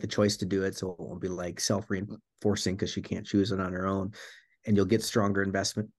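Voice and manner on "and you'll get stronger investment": hiccuping through the words; speaking between hiccups. Real, not acted. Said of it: "I got the hiccups all of a sudden".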